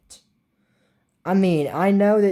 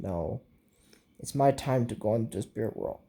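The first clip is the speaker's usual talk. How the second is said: much softer, lower, fading voice; dying farewell; 7 semitones lower, 8 dB quieter than usual. Retold or imitated. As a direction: say goodbye as if your strength is gone. Dying wizard says farewell.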